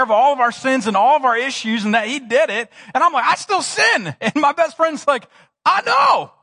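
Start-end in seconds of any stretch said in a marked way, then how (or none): 3.2-4.1 pitched up, guilty little admission; sheepish confession. Retold or imitated. Telling his best friend he still sins, sheepish. 5.6-6.3 higher, gentle knowing friend; kind reply. Retold or imitated. Jesus answering his friend, gently knowing.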